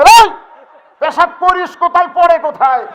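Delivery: husband yelling at his wife. Acted. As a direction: shout at the wife in alarm. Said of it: "স্বামী চিল্লায়".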